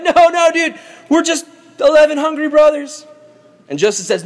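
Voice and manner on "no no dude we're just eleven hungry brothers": high mock-pleading protest. Brothers deny being spies to Joseph, pleading protest. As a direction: plead innocence in a raised, high voice.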